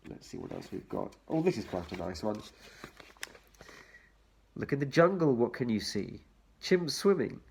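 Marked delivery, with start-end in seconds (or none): 4.5-6.2 lilting read-aloud for little ones; reading to children. Acted. Reading picture book to children.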